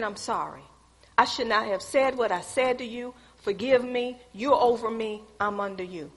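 soft, subdued retold apology; humble apology. Employee apologizing to her boss, soft and humble.

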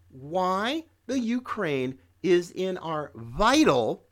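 slow down and press the word "vital"; stress on vital. Shown as a demonstration. Commentator to viewers, slowing to press the word "vital". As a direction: lean hard on "vital" and draw it out. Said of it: "emphasis on the word vital".

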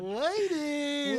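high, loud playful yell; screaming ladies. Pretend. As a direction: belt it out for fun. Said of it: "Just to scream ladies for no reason".

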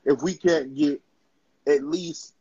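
choking mid-sentence; choking on a drink. Real, not acted. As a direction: talk while starting to choke. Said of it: "excuse me, I'm choking".

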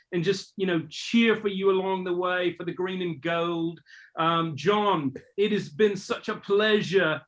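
put-on a would-be Australian accent that drifts toward English; fake Aussie accent. A host tries a fake Australian accent for the Olympian. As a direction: attempt a matey Australian accent, half English. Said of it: "rate his fake accent".

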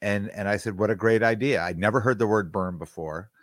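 ordinary delivery

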